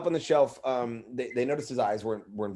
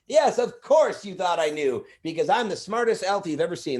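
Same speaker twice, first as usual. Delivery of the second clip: elf Chip; 6 semitones higher, 3 dB louder than usual. Retold or imitated. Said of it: "I'm like".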